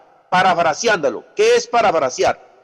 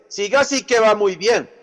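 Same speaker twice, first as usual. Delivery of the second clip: ironic praise; 4 semitones higher than usual. Retold or imitated. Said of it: "es una ironía la que usted le está lanzando".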